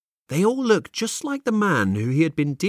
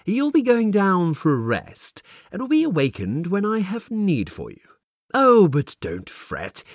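mysterious man; 2 semitones higher than usual. Acted. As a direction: play the smug stranger. Mysterious man speaks in story.

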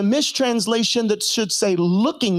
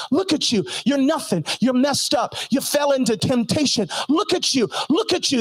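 accusing devil; 4 semitones higher than usual. Retold or imitated. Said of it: "the devil ... says".

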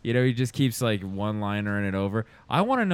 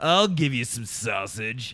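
slow cheesy come-on; slower than usual. Retold or imitated. Mocking his bad line.

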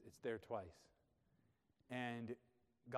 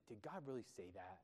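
derogatory, softly scoffing question; mocking; 3 semitones lower, 9 dB quieter than usual. Shown as a demonstration. Preacher voicing Satan's question to Eve, softly mocking. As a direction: quietly belittle what was said. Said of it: "in a mocking, sort of, like, derogatory way".

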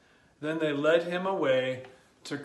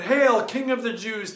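mild mocking shout; 4 semitones higher, 4 dB louder than usual. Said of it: "as the soldiers shouted".

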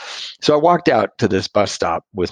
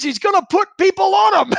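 high-pitched mock Australian accent. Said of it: "In this great Australian accent".

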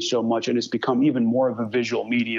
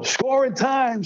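put-on "Score in time" in a much higher New York accent; Marty Glickman; 13 semitones higher, slower than usual. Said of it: "I could still hear it in his New York accent".

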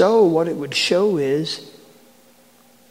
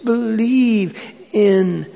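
higher-pitched, easing down from a shout; impassioned plea, no longer shouted; earnest appeal; 4 semitones higher, slower than usual. Acted. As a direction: plead earnestly as Jesus, slowing at the end. Jesus's appeal after the shout.

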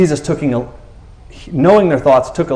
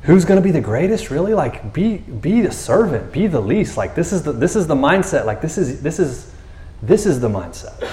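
gentle rebuke; 3 semitones higher than usual. Acted. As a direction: kindly nudge toward humility. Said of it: "but very gently".

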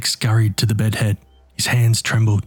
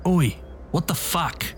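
startled yell; 7 semitones higher, 6 dB quieter than usual. A narrator's reading. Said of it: "yelled Nick".

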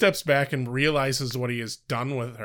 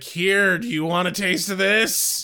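vampire offering; 5 semitones higher than usual. Retold or imitated. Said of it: "And he's like".

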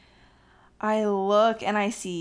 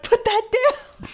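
high, slow urgent scold; hushed scolding; 13 semitones higher, 4 dB louder, much slower than usual. Retold or imitated. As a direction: stop him filming, embarrassed. Scolding husband filming.

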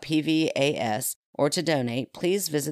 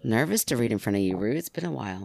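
tipsy, giggling through the words; 4 semitones lower than usual. Real, not acted. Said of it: "I'm really getting a little tipsy".

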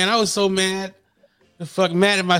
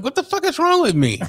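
laughing disbelief; 11 semitones higher than usual. Retold or imitated. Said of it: "I'm like".

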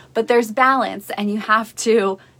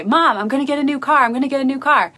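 quick, higher retelling of an eager son; excited son; 4 semitones higher, much faster than usual. Retold or imitated. Son telling his mom about a new car, mildly acted excitement. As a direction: rush it out like a son bursting with news. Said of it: "he was so excited".

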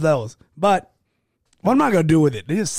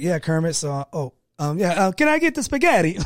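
put-on Italian accent. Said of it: "he starts putting on the, the Italian accent".

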